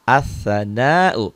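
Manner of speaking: very slow As-sana'u, the s doubled and held; slow Arabic demo. Shown as a demonstration. Teacher models the word for pupils, very slow. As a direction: draw out As-sana'u, al silent. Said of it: "Nah, ini tasdid, sadah".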